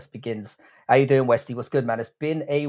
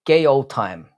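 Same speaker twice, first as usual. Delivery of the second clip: GAY leaned on, louder; stress on GAY; 6 dB louder, slower than usual. Real, not acted. Streamer promising viewers a good old time, heavy emphasis on gay. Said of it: "Heavy emphasis on the word gay".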